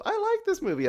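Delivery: imitating the hosts in a mocking voice; mocking impression of the hosts; mock deep impression. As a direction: parody them saying they like it. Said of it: "My voice is not that deep".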